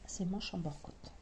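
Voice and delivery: whispered aside. Real, not acted. Trailing aside while working.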